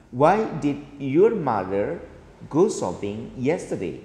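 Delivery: "Why did your mother go shopping yesterday?" slowly, falling at the end; falling intonation. Shown as a demonstration. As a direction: spell it out slowly and bring "yesterday" down. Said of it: "Ini intonasinya turun karena menggunakan kata tanya".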